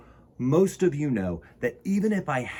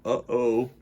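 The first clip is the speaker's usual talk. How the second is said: uh-oh. Acted. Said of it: "said Elizabeth".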